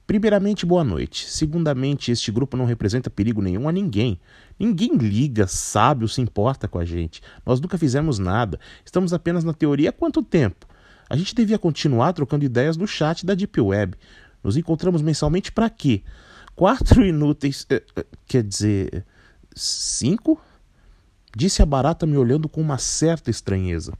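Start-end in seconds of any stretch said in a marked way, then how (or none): 0.1-14.0 put-on higher, cheeky, grumpy girl voice; grumpy young woman. Barata answers, grumpy young woman. 14.4-16.0 put-on higher, cheeky, grumpy girl voice; grumpy young woman. Barata mocks the meetings. 16.6-20.4 put-on higher, cheeky, grumpy girl voice; grumpy young woman. Barata corrects herself.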